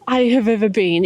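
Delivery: whisper. Real, not acted. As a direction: whisper it to match the silence. Describing how quiet the city is.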